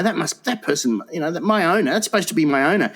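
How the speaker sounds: a put-upon dog complaining about its owner; indignant dog's thoughts. Retold or imitated. Dog fuming about its master, pitch rising.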